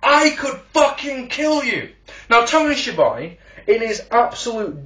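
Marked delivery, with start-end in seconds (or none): 0.0-1.9 mock threat. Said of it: "he says on camera, loudly".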